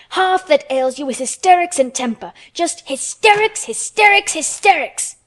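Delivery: high, loud scolding, hammering each HYSTERICS; furious, high-pitched tirade; stamping fury. A narrator's reading. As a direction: shout it in a temper, punching every repeat. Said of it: "she stamped each time she said it".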